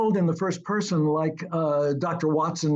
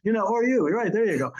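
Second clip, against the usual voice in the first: higher-pitched British voice; put-on British accent; 5 semitones higher than usual. Shown as a demonstration. Author showing he could voice a Brit, British accent. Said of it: "doing a British voice".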